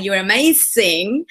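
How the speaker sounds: slow Spanish-accented "You're amazing" with a rising end; own Spanish accent. Shown as a demonstration. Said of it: "I would say it like that".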